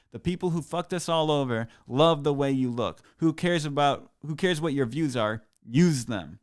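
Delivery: hammed-up earnest plea read aloud; put-on voice reading a text. Reading his friend's post-election text in a mock earnest voice. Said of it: "let me get my voice on".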